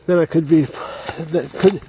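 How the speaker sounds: panting a little while hiking uphill; winded, words between breaths. Real, not acted. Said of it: "let me catch my breath".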